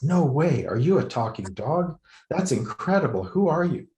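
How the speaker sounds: can't believe a dog talks; amazed. A narrator's reading. Journalist amazed by the talking dog, high and eager.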